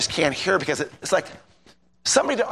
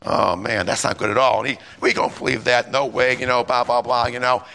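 low, disgusted mutter; dismayed grumble; 4 semitones lower than usual. Retold or imitated. Preacher's inner reaction to the professor, low and dismayed. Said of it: "I'm like".

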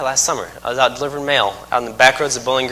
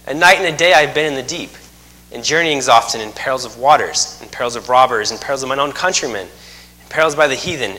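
scripture reading. Acted. Long scripture reading, slow cadence.

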